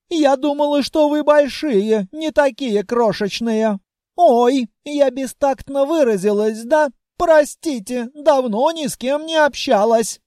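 put-on a lonely, polite young dragoness; shy dragoness. A narrator's reading. Dragoness talking to the hero, high girlish voice.

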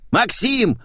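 high loud call; yelled name. Acted. Maid yelling the caller's name, loud call. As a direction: shout the name down the hall. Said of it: "заорала Ленка".

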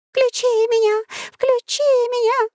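very high, squeaky machine voices; gadget voices. Acted. Gadgets begging the boys, squeaky high pleading. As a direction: chirp like a tiny begging gadget. Things mutter "turn me on.

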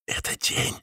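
frightened whisper. Acted. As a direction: breathe it out in fear. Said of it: "прошептал Кальюаси".

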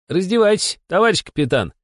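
brisk, high, bossy order; businesslike command. A narrator's reading. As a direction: order them to strip like a busy boss. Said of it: "с деловым видом скомандовал Бесов". (деловитая команда)

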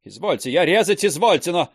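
stammering indignant retort; agitated protest. Acted. Teacher defending his honour, loud and agitated. Heated quarrel with Termosesov.

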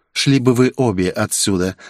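ordinary delivery, nothing marked

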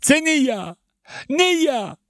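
very high, loud shouting wail; frantic thin voice begging, then a yelp; panicked wailing protest. Acted. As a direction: cry out while being beaten. Beaten man protesting, crying out.

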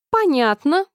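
high, sharp exclaim; exclamation. A narrator's reading. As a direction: snap it out with a jolt. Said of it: "воскликнула королева".

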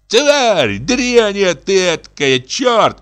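a housekeeper screeching insults through the door; shrieking abuse. A narrator's reading. Housekeeper screams abuse at the general, high shriek. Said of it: "Вера Никитична с кем-то бранится".

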